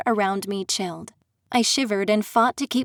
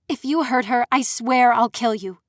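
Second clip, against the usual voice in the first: hissed threat; 2 semitones higher, 3 dB louder than usual. Acted. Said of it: "I hissed".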